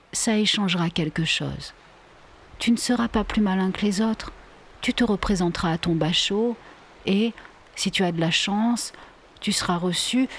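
jeune fille posée qui sermonne doucement; voix plus haute, ton de petite mère sage; Vinka raisonneuse. Acted. (Vinka raisonne son compagnon, ton légèrement moqueur)

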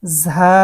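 ঝা with a firm buzzing z and held vowel; hard articulation. Shown as a demonstration. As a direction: press hard on the first sound of ঝা. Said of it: "উচ্চারণটা শক্ত হবে". (শক্ত উচ্চারণে ঝা)

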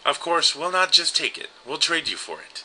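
high sly witch voice; a hint of a scheming witch. Reads witches' offer in voice.

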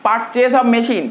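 each word drawn out slowly for notes; slow dictation. Shown as a demonstration. Teacher to class taking notes, slow dictation. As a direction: dictate slowly so students can write. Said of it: "তো বল, কি বলেছে?".

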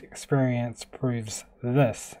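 slow, careful repeat. Retold or imitated. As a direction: spell it out slowly. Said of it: "He said".

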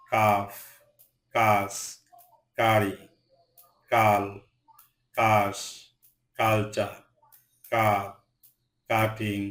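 CU words like কাপ, কাটিং begun with a hard K. Shown as a demonstration. Teacher listing CU examples, কাপ and কাটিং said with hard K. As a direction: say কাপ, কাটিং one by one, K sound first. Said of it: "সি এর উচ্চারণ ক হয়".

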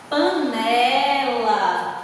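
panela very slow, with a long NE; stressed syllable stretched. Shown as a demonstration. Teacher showing the class the tonic syllable, panela stretched slowly. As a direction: draw out panela, leaning on the middle syllable NE. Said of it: "Panela tem a sílaba tônica na".

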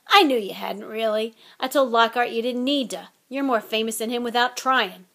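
fast, teasing gruff giant; a hint of a big gamekeeper; Hagrid voice. Hagrid's voice in the story.

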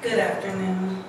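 strained, worn-out voice; losing voice. Real, not acted. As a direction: talk through a tired throat. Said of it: "I'm losing my voice".

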